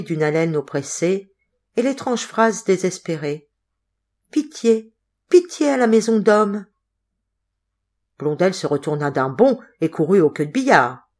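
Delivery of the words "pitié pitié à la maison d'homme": lightly voiced eerie plea. The ghostly phrase again.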